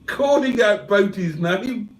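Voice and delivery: high, drawn-out put-on character voice; Cheeseburger. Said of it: "Cheeseburger says".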